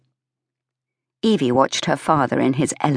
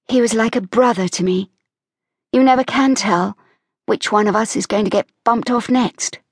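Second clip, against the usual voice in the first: put-on higher young woman's voice, lightly dark humour; Evie, wry and flippant; 5 semitones higher than usual. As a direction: Evie shrugging it off. Evie, wry about death.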